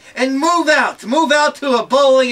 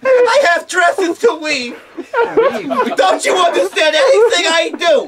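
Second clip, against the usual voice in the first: laughing shout; 5 semitones higher than usual. Real, not acted. Mocking husband's complaints, shouting.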